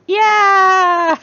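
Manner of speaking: very high, loud, pleased little voice; a high, loud, tickled mischief-god voice; gleeful god voice. Retold or imitated. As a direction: squeal it like a delighted trickster. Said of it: "You like getting yelled at?".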